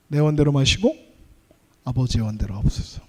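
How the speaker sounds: low, soft, yielding prayer; hushed surrendering prayer. Acted. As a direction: sink into surrender as you pray.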